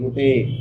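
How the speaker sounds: "रोटेट" read as ro-tay, final E sounded; "रोटेट" said as spelt, ending in ay; naive mispronunciation. Retold or imitated. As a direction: misread "रोटेट" by voicing the silent E. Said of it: "वैसे ही pronounce कर देते हैं".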